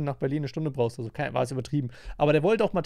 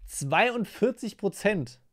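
slow, stunned repeat of the number; incredulous echo; 5 semitones higher, much slower than usual. Real, not acted. Reacting to a Tinder fact, slow disbelieving echo. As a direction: drag out Zweiundvierzig in disbelief.

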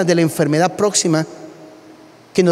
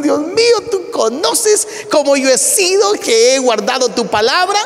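pleading prayer; 3 semitones higher than usual. Retold or imitated. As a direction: pray like a desperate king on his sickbed. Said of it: "empieza en su oración".

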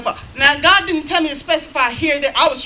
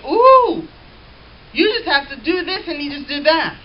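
admiring ooh; 2 semitones higher than usual. Retold or imitated. Folks marvel at the trained dog.

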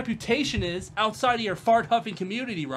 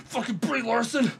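laughing gleefully; 6 semitones higher than usual. Real, not acted. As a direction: cackle at how mad he is. Laughing at Jeremy's angry clip.

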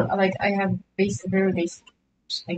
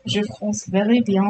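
mock French accent. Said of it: "I can pull off a French accent".

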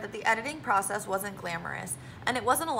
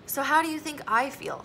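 snapped; 4 semitones higher than usual. Acted. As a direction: fire the question back. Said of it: "snapped Natalie".

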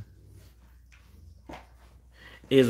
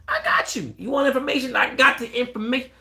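way higher, sing-song tease; mock teasing; 3 dB louder than usual. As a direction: dangle the promise playfully. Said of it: "I'm just joking with you".

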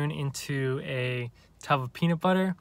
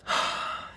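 deep nose breath; 3 dB quieter than usual. Shown as a demonstration. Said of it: "So now I'm going to do correct mewing".

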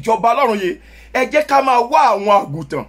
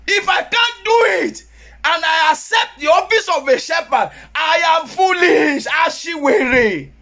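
preaching shout; 5 semitones higher than usual. Real, not acted. Preacher rebukes unfit shepherds.

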